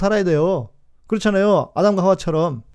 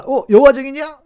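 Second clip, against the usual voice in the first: mock alarm; 9 semitones higher, 4 dB louder than usual. Mocking listeners' alarmed reaction.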